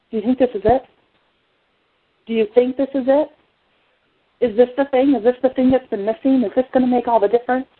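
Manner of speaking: lightly voiced excited mother, questioning; a touch of hopeful wonder in retold questions. Mother asking about the new oils, mildly excited. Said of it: "she says excitedly".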